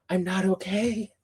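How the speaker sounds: slow, contained fangirl overwhelm; barely keeping it together over a book. Real, not acted. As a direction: hold the excitement in, drawing it out. Overwhelmed about awaited third book.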